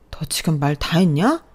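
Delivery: 느리게 눌러 말하는 분노; 화를 누르며 천천히 따져 묻기. Acted. 부부 싸움 끝 아내의 반격. (느릿하게 따지는 화난 말투)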